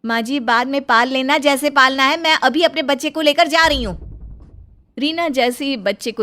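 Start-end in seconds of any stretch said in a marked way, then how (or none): 0.0-4.0 lightly voiced young wife, higher and anxious; worried young bahu. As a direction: plead gently with your mother-in-law. Bahu leaves. (हल्की ऊँची आवाज़ में परेशान बहू)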